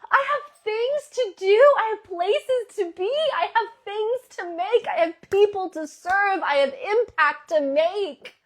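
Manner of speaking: high, loud and thrilled, voice breaking with joy; gushing excitement. Pretend. Coach acting out a morning person, gushing with joy. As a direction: burst out like waking to the best day ever. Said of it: "or would you be like".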